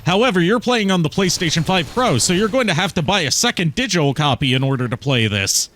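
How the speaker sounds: a hint of an anxious tech-geek sidekick; Otacon voice. Plays Otacon talking to Snake.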